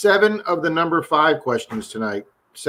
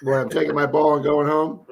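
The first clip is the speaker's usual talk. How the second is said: mock sulky shout. Playful sulky kid line.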